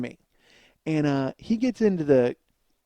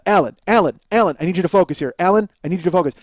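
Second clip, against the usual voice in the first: mock man-to-man firmness; 4 dB louder, faster than usual. Male nurse telling a five-year-old to focus, mock-stern. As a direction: imitate a nurse briskly demanding attention. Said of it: "calling him Alan like he's a man".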